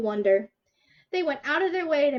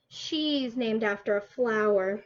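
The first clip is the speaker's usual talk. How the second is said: sneering; 3 semitones lower, slower than usual. Acted. Classmate sneers at her name.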